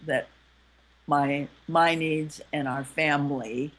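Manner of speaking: low-key, tender appeal to a partner. Acted. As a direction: gently own up to a hurt. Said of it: "you're coming from a softer voice".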